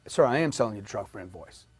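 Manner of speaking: low, soft, unruffled salesman reply; calm reassurance. Retold or imitated. Salesman answering a flustered customer at the close, calm. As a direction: drop right down and stay composed.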